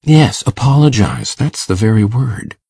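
mildly eager, very low voice; Matthew, eager. A narrator's reading. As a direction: agree eagerly in a deep man's voice. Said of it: "said Matthew eagerly".

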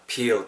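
peel with a drawn-out ee; wrongly long vowel. Shown as a demonstration. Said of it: "길게 하지 마시고". (peel의 모음을 길게 끄는 발음)

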